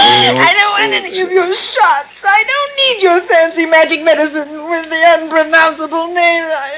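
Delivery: high, crying protest; tearful refusal. Acted. Patient refuses the doctor's shots, crying. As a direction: push the doctor away through sobs.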